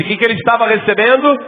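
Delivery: ordinary delivery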